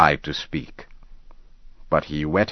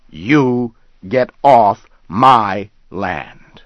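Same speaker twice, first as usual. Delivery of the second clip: higher and louder, slowing on the last order; angry confrontation; 4 semitones higher, 5 dB louder than usual. Acted. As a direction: drive every word home. Ben confronts the hunter.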